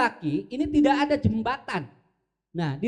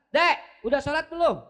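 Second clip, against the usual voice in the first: relaxed father; 4 semitones higher than usual. Retold or imitated. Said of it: "Laki-laki santai".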